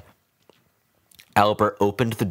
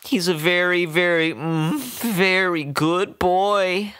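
whispered; 11 semitones higher than usual. A narrator's reading. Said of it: "the woman whispered".

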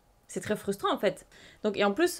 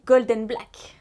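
loud, excited naming of the card; gushing over the rare card; loud delighted announcement; getting carried away; 7 dB louder, slower than usual. Real, not acted. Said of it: "Pardon. Je commence à m'emporter".

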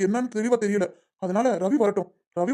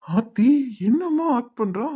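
slow, drawn-out marvelling; mock-amazed aside; 3 semitones higher, much slower than usual. Schemer watching accomplice's performance, mock-amazed aside. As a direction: stretch it out in wry wonder.

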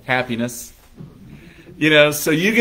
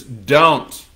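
loud, slow doom-laden warning; bitter stranger in the elevator warning the bride; ominous warning; 7 dB louder, slower than usual. Retold or imitated. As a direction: warn her off like a prophet of doom. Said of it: "the lady looks at her and says".

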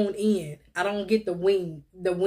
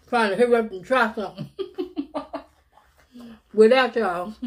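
laughing. Real, not acted. Laughing at own haste.

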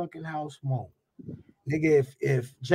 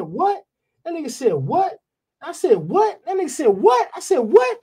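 escalating what standoff; 8 semitones higher than usual. Retold or imitated. Retelling a standoff with the artist, escalating what. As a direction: let every what climb above the last, a mock standoff. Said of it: "them whats could get out of control".

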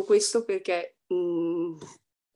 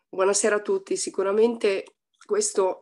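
husky voice from a cold; hoarse voice. Real, not acted. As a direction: speak with a flu-roughened throat. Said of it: "scusate la voce, sono un po' influenzata". (voce rauca da influenza)

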